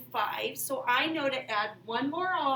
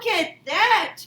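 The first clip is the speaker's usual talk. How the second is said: excited; 5 semitones higher, 9 dB louder than usual. Real, not acted. Teacher reacts to domino.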